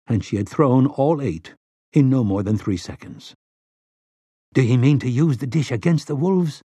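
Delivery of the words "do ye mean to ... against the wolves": breathless fright. Acted. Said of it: "in a queerly breathless voice".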